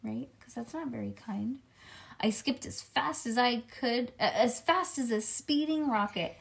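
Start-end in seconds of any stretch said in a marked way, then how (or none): 2.2-6.4 put-on lively read-aloud as a little kid narrator; chatty kindergartner storytelling; children's story narration. A narrator's reading. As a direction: read it to a child with bouncy emphasis.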